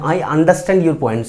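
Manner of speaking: I understand your points said very slowly for the class; slow, careful correct sentence. Shown as a demonstration. Teacher models the correct sentence, slowly. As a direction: spell out each word for the learners. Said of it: "বুঝি বা বুঝতে পারছি".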